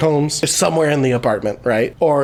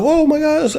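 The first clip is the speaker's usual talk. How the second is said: high-pitched hammed-up gasp of surprise; mock shock; 11 semitones higher than usual. Retelling Dan walking in on the scene, mock shock. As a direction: imitate someone shocked, pitch leaping up.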